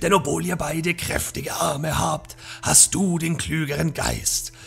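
hissing witch. Acted. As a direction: hiss the bargain like a shadow witch. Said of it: "Der gesichtslose Schatten zischte".

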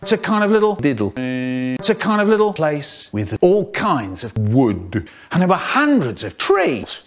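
choppy sentence-mixed clips; words cut and stitched from different takes; spliced words. Acted. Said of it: "faster than science sentence mixing".

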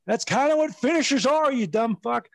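high, amused mock retort; laughing insult. To the boss in the retold meeting, high laughing mock retort.

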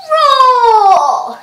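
loud final roar breaking into a laugh; last big roar, laughing; lion roar with a laugh. Shown as a demonstration. Teacher finishing the set with a loud laughing roar. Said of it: "and then you go roar".

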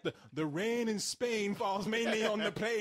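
"rain in Spain" slowly and carefully enunciated; speech-coach recitation, slow and measured; elocution drill. Acted. Coaching an actor to speak properly, elocution drill voice. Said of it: "He does need Rex Harrison".

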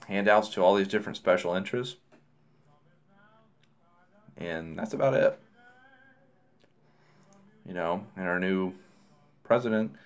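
speaking while smoking pipe; talking around a pipe. Real, not acted. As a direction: pipe stem between lips. Seen 1: Pipe stem held in lips throughout; briefly removed around 5.7–6.4.

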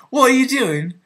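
high-pitched mock reproach; incredulous half-brother. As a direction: imitate an exasperated brother on a call. Acts out brother's reproachful phone call.

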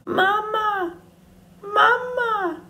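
put-on high, tiny baby-bird voice; peeping gosling. A narrator's reading. Gosling calling the robot mother, high peep. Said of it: "peeped the gosling".

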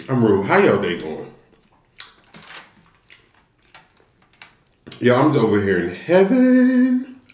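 chewing while talking; savoring a bite; mouth full. Real, not acted. Seen 1: Holds steak, lips pressed, chewing motions while speaking with eyes closed.

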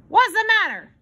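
gruffly. A narrator's reading. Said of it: "he said gruffly".

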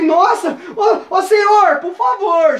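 high, drawn-out hammed-up plea; panicked pleading. Scared man begging the officer, mock panicked pleading. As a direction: beg in comic desperation.

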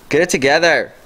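exasperated shout at the phone; frustrated yell. Real, not acted. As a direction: snap at the phone, fed up. Yelling at slow phone.

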